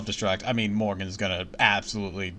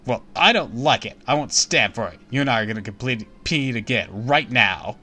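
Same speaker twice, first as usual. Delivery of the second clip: haughty princess voice. Acted. Rival princess challenges heroine.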